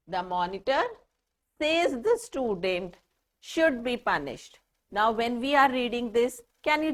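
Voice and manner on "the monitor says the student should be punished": the student is talking about the monitor, so pause there; pauses for meaning. Shown as a demonstration. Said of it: "can you just see the way I am speaking, the pauses that I am taking".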